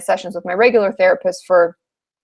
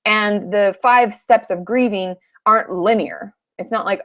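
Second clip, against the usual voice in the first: usual speaking voice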